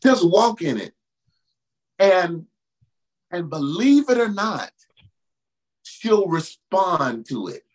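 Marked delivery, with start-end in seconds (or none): 0.0-0.9 louder, lifted preaching cry; stirred up, press it home to the congregation; fervent. Real, not acted. Preacher feeling the Holy Ghost, louder fervent call. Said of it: "God, I felt the Holy Ghost". 5.8-7.6 slow, weighty declaration; slow and deliberate. Real, not acted. Preacher assuring the brothers, slow and deliberate. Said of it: "repeated for emphasis".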